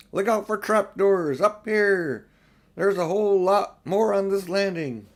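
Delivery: excited shouts from all over the castle; crying out. A narrator's reading. Freed statues calling through the castle, excited shouts. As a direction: call out high and eager. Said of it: "everyone's voices crying out at once".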